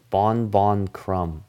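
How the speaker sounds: very slow, drawn-out name; announcer imitation. Host repeats how Krum gets announced, slow announcement. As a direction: announce it word by word, unhurried. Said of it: "That's how they announce him".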